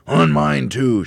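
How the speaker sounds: loud, high-pitched outburst; shouted. A narrator's reading. Mr Twit finds droppings on his head too, shouting. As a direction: shout it out in indignation. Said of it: "shouted Mister Twit".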